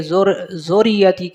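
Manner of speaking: زوریتی said hastily and clipped; rushed. Shown as a demonstration. Teacher showing how زوریتی gets rushed. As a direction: rush through زوریتی. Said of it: "ایسے جلدی سے پڑھا جاتا ہے".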